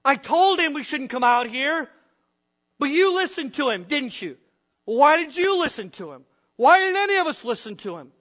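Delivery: loud, high, panicked shouting at each other; frantic shouted blame; frightened angry yelling. Acted. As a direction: yell in desperation over the storm. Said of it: "As they yell to each other".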